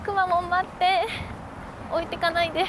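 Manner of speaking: high, excited calls after a mascot; a high, pleading cry not to be left behind; playful urgent calling. Real, not acted. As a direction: hurry and plead, half joking. Hurrying to catch Kumamon.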